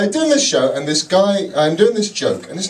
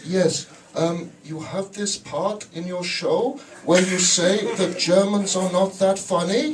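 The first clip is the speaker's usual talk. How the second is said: earnest German complaint; 7 dB quieter, slower than usual. Retold or imitated. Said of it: "comes up to me after the show and goes".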